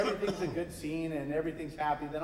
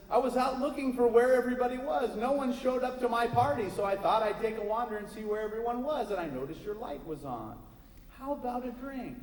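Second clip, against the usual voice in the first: jolly mayor; 7 semitones higher than usual. Acted. Mayor asking the witch for a drink, jolly and high. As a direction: boom cheerfully, pitched up.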